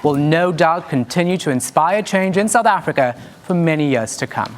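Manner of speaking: crisp, measured news-anchor delivery; news anchor read. Acted. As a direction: read it like a polished evening bulletin. Anchor opening the bulletin.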